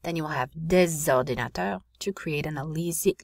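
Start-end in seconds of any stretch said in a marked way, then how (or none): 0.7-1.8 "des ordinateurs" linked with a Z sound; liaison. Shown as a demonstration. Teacher demonstrating for students, "des ordinateurs" with liaison. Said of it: "liaison between the final consonant".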